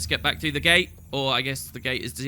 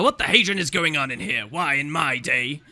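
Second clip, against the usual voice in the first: a hint of a crotchety old councillor; lightly voiced Flunt; 2 semitones lower than usual. Old councillor demanding to know what is going on, lightly crotchety. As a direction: grumble it like a put-out old-timer. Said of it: "This is Flunt this time".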